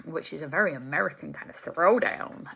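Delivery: bad Texan accent. Shown as a demonstration. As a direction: ham up a terrible Texan American accent. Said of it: "that's a terrible Texan American accent".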